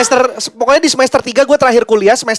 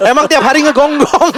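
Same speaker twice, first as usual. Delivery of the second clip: laughing; 6 semitones higher than usual. Real, not acted. Teasing joke about barking dog.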